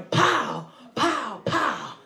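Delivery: drawn-out "pow" like a gunshot; slow, popping gunshot noises; imitated gunshot. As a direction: mimic airbags going off like gunfire. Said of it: "it sounded like a gunshot".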